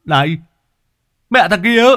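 high, loud furious shout; angry yelling. A narrator's reading. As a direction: bark at the boy on the cart. Old man yells at stowaway. (lão quát thằng nhảy lên xe)

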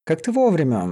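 grateful, relieved greeting; relieved exhale. A narrator's reading. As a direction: breathe it out with relief. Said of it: "выдохнула Лиза".

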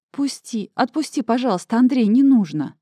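pleading. Acted. Pushing husband away.

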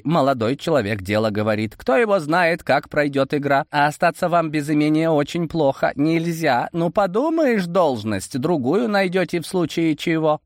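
put-on high, coaxing old servant; Koshchei persuading. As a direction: coax the master kindly.

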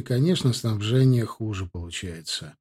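plain reading voice

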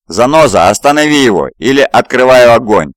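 loud, high barked threat; sergeant shouting. Acted. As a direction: shout the ultimatum. (громкий крик сержанта)

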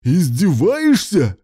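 slow, high, loud hysterical cry; hysterical wail. A narrator's reading. Husband wailing hysterically at spouse's gift plan. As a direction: wail it out in outrage. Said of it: "завопил истерично Руслан".

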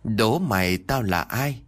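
slow, hoarse monster riddle; hoarse ghost voice. Acted. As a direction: rasp it out slowly like a ghoul. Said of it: "Nó nhìn tôi giọng khàn đục". (giọng ma khàn đục, chậm rãi)

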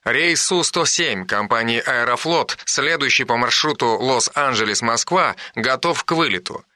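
calm, measured PA announcement; airport announcement. Acted. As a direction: read it like an airport tannoy. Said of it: "раздался голос по радио".

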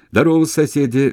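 loud, high, merry greeting; cheerful shout. A narrator's reading. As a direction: hail the neighbours cheerfully. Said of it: "весело крикнул раб".

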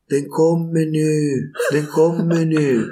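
mock alarmed wife calling out slowly; panicked partner. Pregnant partner announcing birth at night. (panikslagen, långsam och ljus röst)

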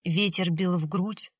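plain reading voice

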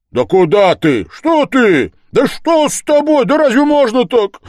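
high, loud, frantic questions; panicked, pitch soaring; utterly at a loss. A narrator's reading. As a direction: burst out in helpless dismay. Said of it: "бормотал совсем потерявшийся Разумихин".

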